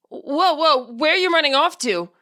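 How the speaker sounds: a hint of a flustered older man calling out; nervous middle-aged man. A narrator's reading. Spirit voice calling after the fleeing boy, lightly nervous man. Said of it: "a nervous, middle-aged man from the sound of it".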